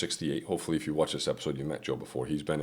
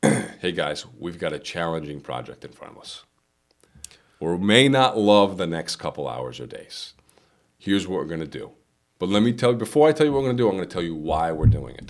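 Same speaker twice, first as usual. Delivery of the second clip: encouraging leader; 6 dB louder than usual. Shown as a demonstration. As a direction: bring them on board and explain why. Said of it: "it's how it's being delivered".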